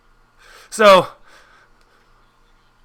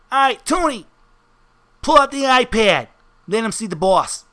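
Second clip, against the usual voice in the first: Tiny Bananas; 5 semitones higher than usual. Acted. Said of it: "Tiny Bananas turns to Tony Bananas and goes".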